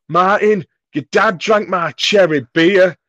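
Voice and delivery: high, loud, slow whine; whiny complaint. Retold or imitated. Chris whining to Martin about the dad. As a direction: plead like a robbed teenager.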